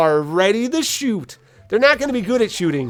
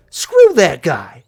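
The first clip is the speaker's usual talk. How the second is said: scheming orc sniper; 3 semitones higher than usual. Retold or imitated. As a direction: plot the shot with sly relish. Sniper orc's scheming quote.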